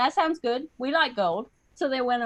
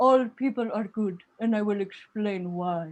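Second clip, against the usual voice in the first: put-on fervent, passionate delivery with Indian accent; 2 semitones lower than usual. Recalling speech and debate, imitating a kid arguing in a mock-passionate indian accent. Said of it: "really passionate about a debate topic with an Indian accent".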